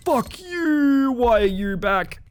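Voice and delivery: high, drawn-out indignant cry; startled angry yell. Real, not acted. Player yelling at the monster that came back, startled and indignant. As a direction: yell it out high, stretching the words. Shouts at returning game monster.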